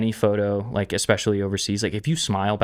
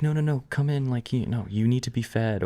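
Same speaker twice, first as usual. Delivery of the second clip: insistent host; 4 semitones higher than usual. Retold or imitated. Voicing insistent Italian host.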